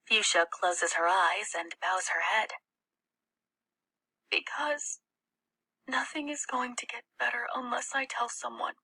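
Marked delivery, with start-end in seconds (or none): 4.3-8.7 breathy higher whisper. A narrator's reading. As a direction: whisper it so nobody overhears. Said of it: "she whispers".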